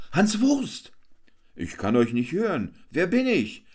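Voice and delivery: high, boisterous clown hamming; Hans Wurst the clown. A narrator's reading. Hans Wurst boasts to the crowd, high and boisterous. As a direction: work the crowd like a fairground clown.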